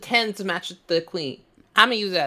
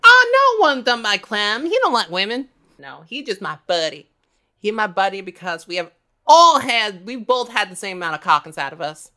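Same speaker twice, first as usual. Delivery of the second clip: sassy trucker character; 3 semitones higher, 4 dB louder than usual. Acted.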